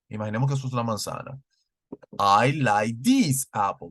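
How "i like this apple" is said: "I like this apple" with "this" stressed, said slowly; slow model sentence. Shown as a demonstration. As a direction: lean on "this" as a teaching example. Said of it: "Usamos el this".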